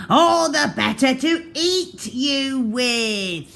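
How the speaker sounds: wolf before pouncing; menacing wolf. A narrator's reading. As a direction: gloat as you pounce. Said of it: "said the wolf".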